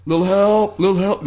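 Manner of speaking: high, loud mock call for help; yelling out. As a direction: call out comically to anyone in earshot. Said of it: "like, yelling out".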